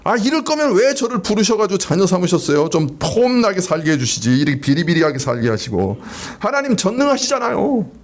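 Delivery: acted complaint to God, not truly shouted; imitated inner outcry. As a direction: protest to God like an aggrieved believer. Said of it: "혹 소리 지르고 계시지는". (하나님께 따지듯 호소하는 흉내)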